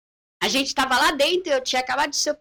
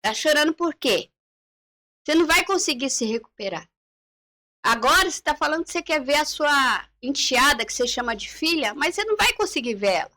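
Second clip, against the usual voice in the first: harsh psychologist retold; 3 semitones higher than usual. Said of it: "e ele falava".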